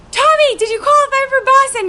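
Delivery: high-pitched, excited asking; retold eager question. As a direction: re-enact calling out an urgent question. Eager question at finish line.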